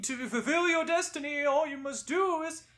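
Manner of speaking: ghost voice choking on spice. Acted. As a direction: cough and choke through the line. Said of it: "I think I've still got some spice stuck in my throat".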